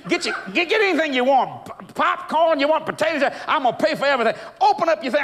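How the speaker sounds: high, insistent offer of food and gas; generous cussing trucker. Retold or imitated. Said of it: "He said".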